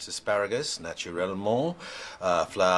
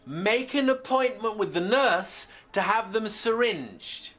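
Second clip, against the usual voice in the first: high, slow shouted advice to a patient; shouted instruction; 11 semitones higher, slower than usual. Acted. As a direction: shout it in one run, pitched well up. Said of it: "sorry, was I shouting".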